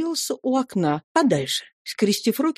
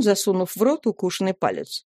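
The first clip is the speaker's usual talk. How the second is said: ordinary delivery, nothing marked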